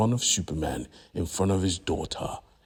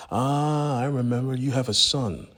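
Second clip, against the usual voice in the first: gleeful menace, higher and louder; gloating threat; 7 semitones higher, 4 dB louder than usual. Acted. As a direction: gloat as if remembering a secret, pitched up. Villain threatens Lois's son.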